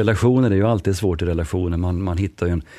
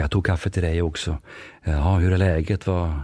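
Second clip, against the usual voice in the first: gentle and easy; 2 semitones lower than usual. Shown as a demonstration. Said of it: "du tar lite lugnt och försiktigt".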